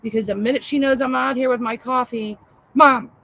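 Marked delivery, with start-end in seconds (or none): 2.7-3.1 mock whiny daughter calling mom; nagging daughter. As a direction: pester mom over and over like a kid.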